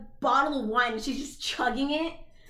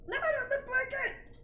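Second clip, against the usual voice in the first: squeal of disgust; 11 semitones higher, 5 dB quieter than usual. Real, not acted. Squealing at the pet.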